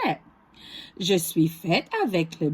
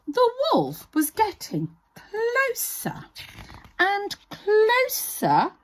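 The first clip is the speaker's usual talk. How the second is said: slow suspense; 9 semitones higher, slower than usual. A narrator's reading. Suspense as wolf nears.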